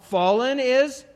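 loud, slow, booming proclamation of the verse; preaching scripture reading. Acted. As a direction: proclaim it like a prophet from the pulpit.

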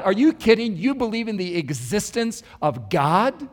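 acted incredulous challenge; indignant disbelief. Woman confronting the preacher about God, retold indignant disbelief. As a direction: press the question in mild, retold indignation.

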